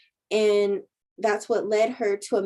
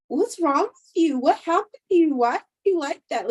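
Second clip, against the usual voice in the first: high, louder prodding questions; nosy prying friend; 7 semitones higher, 5 dB louder than usual. Retold or imitated. Friend badgering the jumpy girl, nosy and loud. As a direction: pester her like a nosy older woman. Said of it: "she was just so nosy".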